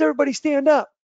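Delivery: imitating a speaker rousing a crowd, high and loud; high, forceful retold order; shouted command. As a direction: call the whole room to its feet.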